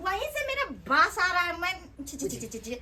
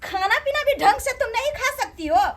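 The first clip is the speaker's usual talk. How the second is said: raised, indignant scolding; scornful scolding. Acted. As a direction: berate them with exasperated scorn. Sister-in-law scorns host's poverty. (तिरस्कार भरल डाँट)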